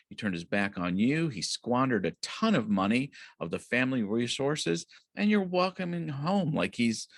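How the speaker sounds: high, whining outrage at the unfair welcome; older son protesting to his father in a high indignant whine; indignant older brother. Retold or imitated. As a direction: squeal the complaint up high like a wronged sibling. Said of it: "he's just really angry".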